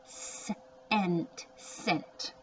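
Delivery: Cent said with a soft s sound. Shown as a demonstration. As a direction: hiss the C in Cent like an s. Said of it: "gonna be a soft C".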